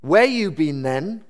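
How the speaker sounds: put-on slow, swooping Welsh accent. Officious lady greeting a returning young woman, judgmental Welsh accent. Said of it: "That was Welsh accent".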